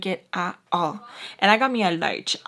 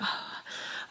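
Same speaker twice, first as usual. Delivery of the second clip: imitated nervous exhale; acted jittery puff of air; nervous sigh; 14 dB quieter than usual. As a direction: blow out a soft, uneasy breath. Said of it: "really, really nervous".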